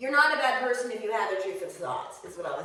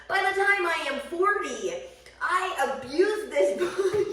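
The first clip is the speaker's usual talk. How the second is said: laughing; 8 semitones higher, 5 dB louder than usual. Real, not acted. Laughing about abusing her body.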